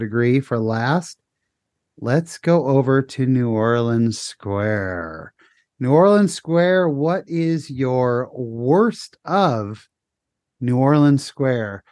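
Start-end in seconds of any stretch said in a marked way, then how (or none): 2.0-5.3 slow drawn-out host announcement; game-show segue; announcer. Acted. Host announces next area. 5.8-11.8 very slow, emphatic host read; game-show question; announcer. Acted.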